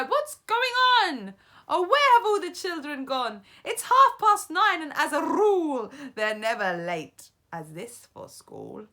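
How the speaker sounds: very high, loud fretting; crying teachers. A narrator's reading. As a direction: wail in confusion. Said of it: "The teachers cry".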